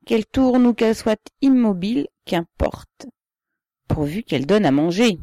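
loud, forceful peasant argument, pitch rising on key phrases; emphatic objection. A narrator's reading. Ribine observing that the peasant cares who owns the land, loud and emphatic. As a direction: press the point home loudly.

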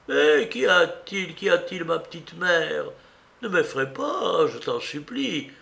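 put-on high, anxious old aunt voice; alarmed aunt. Aunt frightened by her niece's plea, alarmed questioning. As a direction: ask in alarm, high and imploring. Aunt's figure in the story.

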